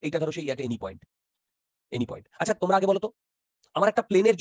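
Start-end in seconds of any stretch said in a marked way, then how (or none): 0.0-2.3 spaced out, word by word for note-taking; slow dictation. Shown as a demonstration. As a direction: dictate it slowly so they can write. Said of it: "আস্তে আস্তে বলছি". (ধীরে ধীরে শ্রুতিলিখন)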